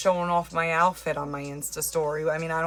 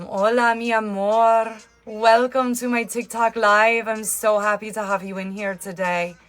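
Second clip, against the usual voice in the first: attempted Spanish accent; 2 semitones higher, 4 dB louder than usual. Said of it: "Do a Spanish accent".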